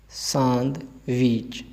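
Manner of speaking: सांदविच slowly, nasal saan; nasal n demo. Shown as a demonstration. Teacher modelling सांदविच with a nasal n. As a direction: stretch सांदविच with a nasal aan. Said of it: "थोड़ा नून गुना करके".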